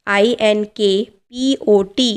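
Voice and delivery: letters said slowly and apart; slow spelling out. Shown as a demonstration. Teacher spelling इंक पॉट for students, slowly. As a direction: spell out each letter for the class. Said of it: "teacher spells word letter by letter".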